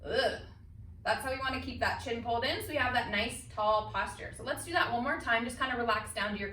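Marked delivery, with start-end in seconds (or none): 0.0-0.4 disgusted ugh. Shown as a demonstration. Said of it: "did not wanna be kissed by them".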